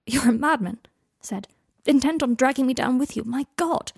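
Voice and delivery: loud, rising cry; excited exclamation. A narrator's reading. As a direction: burst out, half laughing. Breathless exclaiming outburst.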